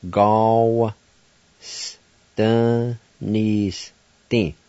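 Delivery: Ga and wa run together, then s, dun, ni, s, tin; syllables joined. Shown as a demonstration. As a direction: glide the G A W together, then step through the rest. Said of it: "like this".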